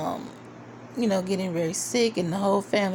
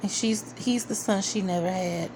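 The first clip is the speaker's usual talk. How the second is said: gushing; 2 semitones higher, 4 dB louder than usual. Retold or imitated. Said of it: "I was like".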